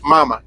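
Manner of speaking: "mama" stressed up front, MA-ma; stress on first syllable. Shown as a demonstration. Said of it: "accent on the first word".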